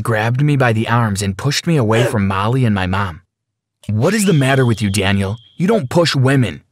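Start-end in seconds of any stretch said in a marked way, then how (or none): 3.9-6.6 reprimanding. Acted. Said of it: "he reprimanded".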